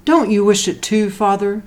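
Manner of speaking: wife asking her husband; a hint of the mother. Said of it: "she said".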